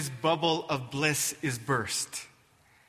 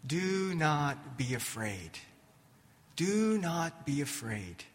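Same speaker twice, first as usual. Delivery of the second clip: gentle hushed tone. Acted. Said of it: "he speaks in a gentle and hushed tone".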